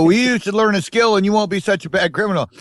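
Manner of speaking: prison teacher voice. Retold or imitated. Prison instructor advising inmates, mock preachy high voice. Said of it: "They go".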